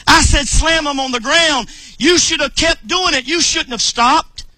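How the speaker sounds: mildly angry prophet's rebuke; retold anger. Prophet tells king he should have kept slamming arrows, mildly angry. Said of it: "Why did he get mad at him?".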